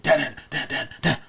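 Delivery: high, loud urgent calls for dad; a scared kid yelling for his father; calling out. Retold or imitated. Son yelling for dad from the other room, loud and high.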